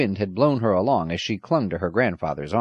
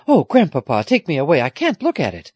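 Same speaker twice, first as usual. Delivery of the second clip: put-on higher, louder girl's plea; distressed pleading; 7 semitones higher, 6 dB louder than usual. A narrator's reading. Girl pleading with grandfather, distressed. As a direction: beg to be taken away. Frightened girl begging to leave.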